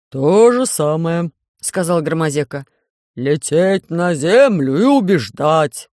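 могучий инопланетянин, говорит громче и очень медленно; весомо, с расстановкой, громко; гулкий медленный бас Громозеки. Acted. Голос Громозеки. (Громозека, громко и очень медленно)

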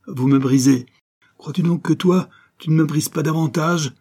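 high, wrought-up protest; anguished quarrel. Acted. Mother and son hurt each other, high and anguished. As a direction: protest as if wounded.

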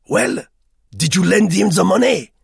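an impatient police chief on the phone; sharp, annoyed official answering; irritable commissaire. Acted. Begin questions narrator.

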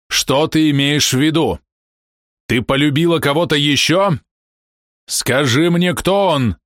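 a husband half-wild with jealousy; furious demand. A narrator's reading. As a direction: force the name out of her. Husband demands lover's name.

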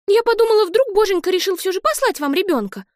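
put-on high, bright little-girl voice, excited; a small girl bubbling over with hope; little girl gushing about a baby, high and excited; eager little sister. Olive hoping aloud.

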